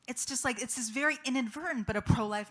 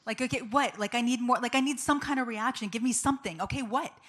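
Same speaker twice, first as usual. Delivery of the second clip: exasperated, raised voice demanding a reaction; louder, higher, impatient retold outburst; annoyed; 4 semitones higher, 5 dB louder than usual. Wife demanding more reaction from husband, annoyed. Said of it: "Annoyed me like you don't even know".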